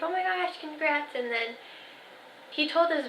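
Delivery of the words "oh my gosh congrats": higher-pitched retold delight; understated imitation of happy surprise; delighted congratulations. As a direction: imitate a pleased relative, pitched up. Voices mother-in-law's happy reaction.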